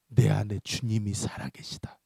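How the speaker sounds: low, slow, whispery avowal; solemn declaration. Retold or imitated. Pastor warns the demon, low and hushed. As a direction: declare it slowly, hushed and grave.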